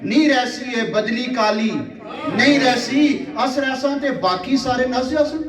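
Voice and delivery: measured mushaira recital, repeating lines for effect; poetry recitation. Acted. Poet reciting verse to a live audience, declaimed. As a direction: declaim verse with drawn-out line endings.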